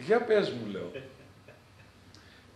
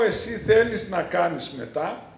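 mock question; 4 semitones higher, 11 dB louder, slower than usual. Priest mimics the wife's question.

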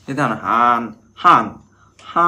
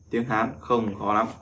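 slow repeat; 2 semitones lower, 6 dB quieter than usual. Shown as a demonstration. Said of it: "bí mật mình muốn bật mí".

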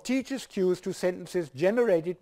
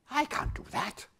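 put-on reluctant head girl; 7 semitones higher, 4 dB quieter than usual. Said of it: "here is a dialogue".

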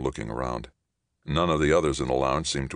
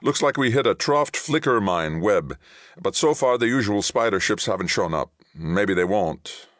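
raised, urgent captain's voice; tense captain; 6 semitones higher, 4 dB louder than usual. Acted. Captain briefs Johnny on the mine web, tense. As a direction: report the danger high and tense.

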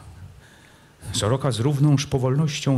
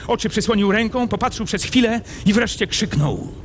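dramatic narration; 9 semitones higher than usual. A narrator's reading. Narrator tells the prince's violent escape, urgent and heightened. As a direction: drive the action forward breathlessly.

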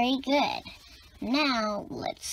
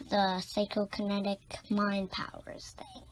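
whisper; 7 dB quieter than usual. Acted. Secretive explanation of mind powers.

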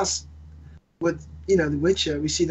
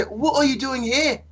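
higher-pitched imitation of a puzzled stranger; 7 semitones higher than usual. Imitating Walmart shoppers quizzing a British man, lightly puzzled. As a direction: lightly mimic a baffled questioner. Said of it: "And they say".

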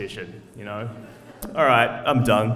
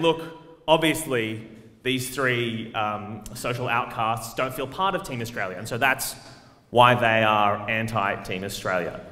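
mocking the opponents; 5 semitones lower, slower than usual. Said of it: "they're gonna be criticizing us and saying".

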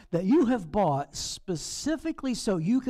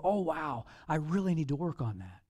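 complacent believer; 3 semitones lower than usual. Retold or imitated. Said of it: "and you go".

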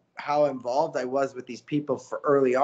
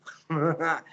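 stupid laugh; 3 dB quieter than usual. Shown as a demonstration. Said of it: "I got that stupid laugh".

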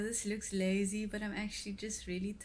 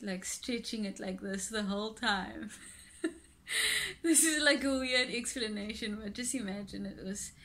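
speaking with fingers in mouth; lips pulled by fingers. Real, not acted. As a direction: mouth stretched sideways. Seen 0: Fingers hook and pull her mouth corner wide while speaking.

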